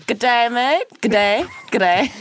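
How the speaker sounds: practising an Australian greeting; Australian accent. Shown as a demonstration. Guest told to try and do it, tentative Australian accent. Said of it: "do an Australian accent".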